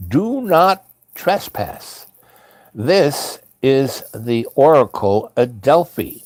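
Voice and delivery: slow, deliberate warning notice; sign read-out. Retold or imitated. Traveler reads the English sign aloud, slow and deliberate. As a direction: spell out the warning, word by word.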